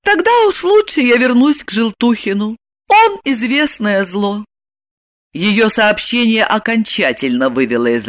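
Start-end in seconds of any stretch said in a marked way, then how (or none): 0.0-4.4 calm. Acted. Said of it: "спокойно сказала".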